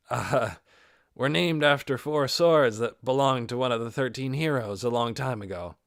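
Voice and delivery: beaming as you announce it; lightly voiced proud grin. Peter proudly explaining the team name, grinning. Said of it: "grinning from ear to ear".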